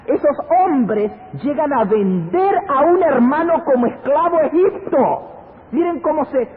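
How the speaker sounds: high-pitched, gripping pulpit storytelling; full-force preaching. Acted. Preacher tells congregation of brothers selling a brother, impassioned high preaching.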